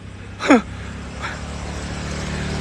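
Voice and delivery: long breathy unvoiced sob; choked-up exhale, holding back tears; tearful sob. Real, not acted. Founder overcome recalling plea to feed the children, sobbing.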